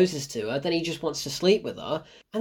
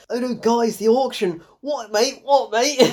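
mock British accent, pitched up; hammed-up British "mate" talk, higher voice; British Lupita Nyong'o; 4 semitones higher than usual. Mocking an actress's radio lines, British accent. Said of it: "British Lupita Nyong'o".

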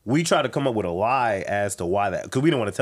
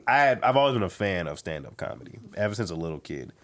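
ordinary talk, nothing marked

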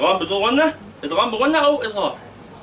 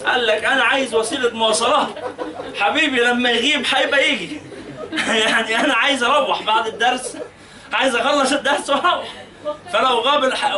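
laughing; 4 semitones higher than usual. Real, not acted. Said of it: "teacher laughs retelling sheikh joke".

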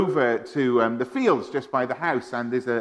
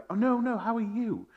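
mum brushing it off; 9 semitones higher, 5 dB quieter than usual. Retold or imitated. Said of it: "she'd be like".

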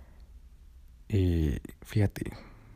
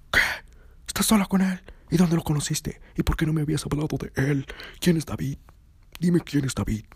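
jealous outburst; 7 semitones higher than usual. Retold or imitated. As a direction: fire the questions at her, outraged. Boyfriend exploding in jealousy.

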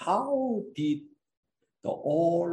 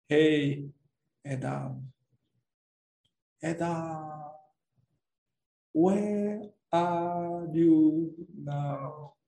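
God calling out; 4 semitones lower, much slower than usual. Acted. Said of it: "God is calling out".

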